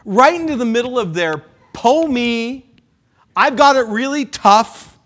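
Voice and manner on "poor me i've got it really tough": lightly whiny self-pity voice; a hint of a moping disciple; mock pity party. Pastor mocks the disciples' self-pity, a mild whine. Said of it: "pity party".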